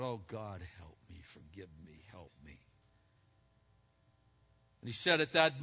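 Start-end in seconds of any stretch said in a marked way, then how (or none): 0.0-2.6 cried out. Retold or imitated. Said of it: "he cried out".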